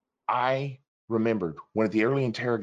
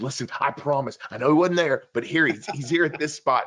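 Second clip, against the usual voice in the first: retold urgent insistence, higher pitched; mildly heated retold plea; insistent pleading; 4 semitones higher, 3 dB louder than usual. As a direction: press the promise, voice lifting and getting louder. Insisting to commander after failed raid.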